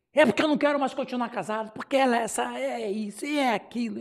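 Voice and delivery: mildly hurried mock rant; imitating nonstop complaining. Husband complains to the pastor without stopping, mock rattling. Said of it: "Ele falou dez minutos sem parar".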